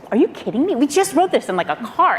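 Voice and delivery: can't believe what you're seeing; amazed disbelief. Retold or imitated. Disbelief at flawless speech.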